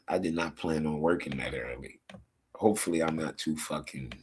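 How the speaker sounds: low and soft, half yawning; tired voice through a yawn. Real, not acted. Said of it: "I already started yawning and shit".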